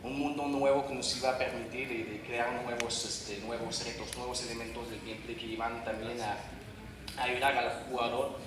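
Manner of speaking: Spanish with an American accent; non-native Spanish, English-speaker accent. Real, not acted. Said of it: "disculpen mi español".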